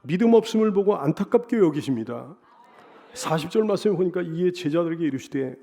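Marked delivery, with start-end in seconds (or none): none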